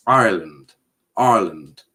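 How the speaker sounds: "Ireland" as a careful low, falling practice word; pronouncing the R. Shown as a demonstration. Streamer follows advice to pronounce the R, careful practice. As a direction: try to sound the R in "Ireland". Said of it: "you need to pronounce the R".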